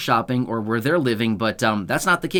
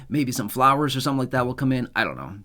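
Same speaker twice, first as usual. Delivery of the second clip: choking up. Real, not acted. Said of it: "Sorry, I'm choking up now".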